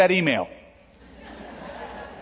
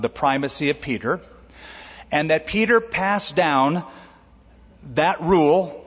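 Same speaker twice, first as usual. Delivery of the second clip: ordinary talk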